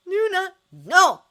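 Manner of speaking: loud, slow, forced through clenched teeth; through gritted teeth. A narrator's reading. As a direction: grind the words out, high and loud. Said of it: "said between gritted teeth".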